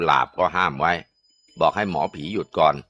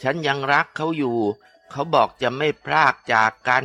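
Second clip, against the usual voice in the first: pleading female ghost; 7 semitones higher than usual. Acted. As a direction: plead for the love she was promised. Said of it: "เป็นเสียงผู้หญิง".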